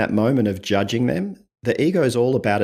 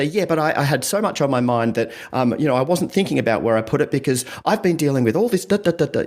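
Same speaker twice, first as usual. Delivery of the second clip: higher, rushed excuse-making; defensive justifying; 4 semitones higher than usual. Retold or imitated. Partner excusing where the peanut butter went, defensive. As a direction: pile up excuses to justify yourself. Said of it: "that tone of defensiveness when we're justifying".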